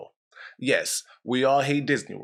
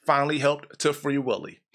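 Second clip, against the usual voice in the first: scripted show intro. Acted.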